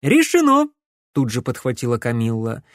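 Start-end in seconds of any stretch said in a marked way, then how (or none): 0.0-0.7 high, loud triumphant call; eager cry. A narrator's reading. Camilla clinching the plan, triumphant. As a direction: pounce on it at once.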